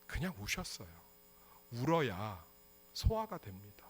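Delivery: normal talking voice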